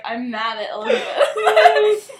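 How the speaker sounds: mock angry text. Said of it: "texted both of us and was like".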